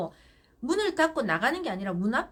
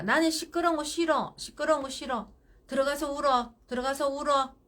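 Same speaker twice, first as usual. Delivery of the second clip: ferme; 3 semitones higher, 4 dB louder than usual. Shown as a demonstration. Models parent sending child off to cry.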